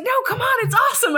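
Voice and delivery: high-pitched imitation of an amused partner; coaxing. Partner begging to share the funny video, coaxing. Voicing Andy's coaxing reply.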